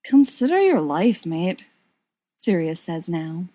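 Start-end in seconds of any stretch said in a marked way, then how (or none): 0.0-1.6 pitying. Acted.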